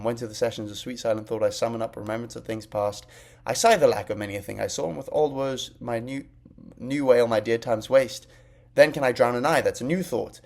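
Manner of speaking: quick recital. Shown as a demonstration. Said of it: "you have to perform it like this, very quickly".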